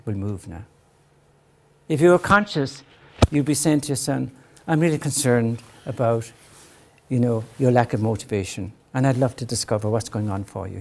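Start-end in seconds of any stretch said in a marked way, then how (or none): 4.7-10.8 caring parent tone. Shown as a demonstration. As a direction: speak to the son with real concern. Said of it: "hear the tone of voice".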